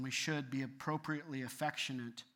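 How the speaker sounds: "appropriately" given deliberate emphasis; weight placed on "appropriately"; stress on APPROPRIATELY. Real, not acted. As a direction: lean on the word "appropriately". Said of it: "High emphasis on the word appropriately".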